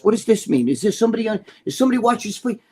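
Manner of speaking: a touch of mobster paranoia; mock paranoid questioning. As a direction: imitate someone suspecting a signal. Acts out paranoid Scarpa looking around.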